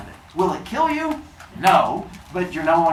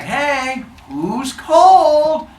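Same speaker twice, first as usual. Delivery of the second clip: cheery greeting; 11 semitones higher, 9 dB louder, much slower than usual. Acted. Prometheus greets the humans.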